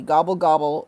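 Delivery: mock turkey gobble. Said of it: "Andy can speak Turkey".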